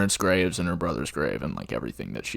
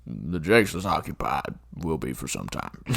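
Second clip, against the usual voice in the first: Rooster's reply; 3 semitones lower than usual. Retold or imitated. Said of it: "he's like".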